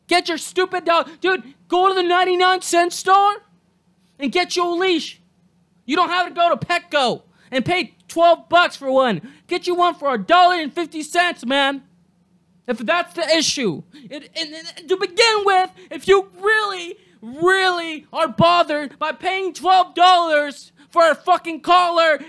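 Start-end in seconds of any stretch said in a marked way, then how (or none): 0.0-7.2 ranting at owners without leashes; shout. Real, not acted. 14.9-22.2 ranting about the price of leashes. Real, not acted. Ranting, shouted slowly.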